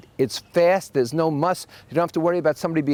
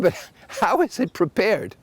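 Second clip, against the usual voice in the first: pressing the waiter; 4 semitones higher, slower than usual. Retold or imitated. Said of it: "I said".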